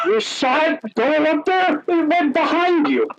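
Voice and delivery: high, incredulous driver's voice; high-pitched disbelieving trucker; amazed truck driver. Retold or imitated. Truck driver questioning him, retold.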